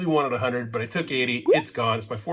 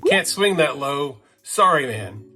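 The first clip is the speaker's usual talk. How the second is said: odd way of talking; 5 dB louder, slower than usual. Retold or imitated. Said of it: "I don't know why I'm talking that way".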